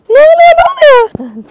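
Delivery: high, loud playful surprise; playful mock alarm. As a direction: pretend to be startled for the child. Mock alarm playing with child. (çocuğa oyun olsun diye şaşırmış gibi yapan anne)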